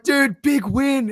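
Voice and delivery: loud, high, slow Boston bro cheer; Boston accent. Retold or imitated. Greeting a Boston fan at a festival, slow loud Boston accent. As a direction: stretch it out like a Boston fan celebrating. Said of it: "that's the accent".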